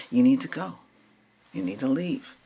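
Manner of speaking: loud firm order to the spirit; firm command. Real, not acted. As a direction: push the spirit out with force.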